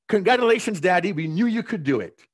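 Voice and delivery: lightly voiced child reading the card; a hint of a little girl's cheer; child's voice. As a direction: read it like an eager kid.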